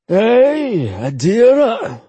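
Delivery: Adara spat out, slow and falling; disgusted. Acted. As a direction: say the name with contempt. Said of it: "Uncle Akir said with disgust".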